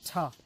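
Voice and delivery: "ta." with a short schwa; reduced "ta.". Shown as a demonstration. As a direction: weaken "ta." to an unstressed uh. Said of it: "That is why we pronounce it as".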